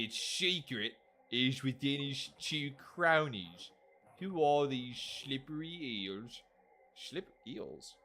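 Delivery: slow mock-British character voice; attempted British accent. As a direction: read it slowly in rough British. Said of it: "I'm trying to do a British accent".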